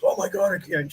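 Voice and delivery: lightly voiced alarmed woman, retold; freaked-out woman. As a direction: pitch it up and play her panicked and accusing. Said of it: "she freaked out".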